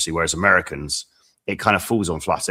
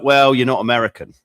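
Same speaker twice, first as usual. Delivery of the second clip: mock Aussie client; 5 semitones higher, 7 dB louder than usual. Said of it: "he was like".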